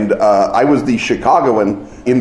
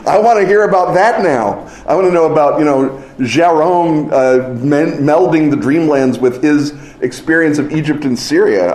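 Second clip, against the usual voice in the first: high eager asking; eager pleading; 4 semitones higher than usual. Retold or imitated. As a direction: plead eagerly, laughing at first. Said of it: "And I, I say".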